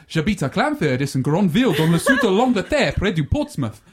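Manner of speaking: put-on recited French with an English speaker's French accent; schoolboy French spiel. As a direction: reel off a rehearsed French school piece. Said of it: "So I launched into this spiel".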